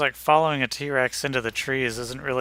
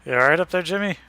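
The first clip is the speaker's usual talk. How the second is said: winded after running; breathing hard between words; 3 semitones higher, faster than usual. Real, not acted. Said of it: "let me catch my breath".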